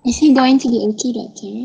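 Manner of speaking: quick, anxious question; worried pleading. Acted. Mother asks the doctor about her baby, worried and rushed. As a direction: ask urgently, rushing the words.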